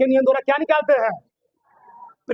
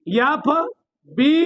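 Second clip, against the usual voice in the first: एफ़बीआई spelled out very slowly; drawn-out FBI; much slower than usual. Shown as a demonstration. Teacher drilling class on the FBI rule, very slowly. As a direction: stretch each letter of एफ़बीआई. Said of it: "लिखा ही हूँ".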